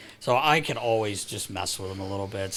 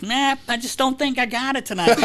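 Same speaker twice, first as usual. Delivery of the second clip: much higher mock mopey voice; imitating Phil; 14 semitones higher, 6 dB louder than usual. Broadcaster imitating Phil on the bench, mopey. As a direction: give up already, hammed-up.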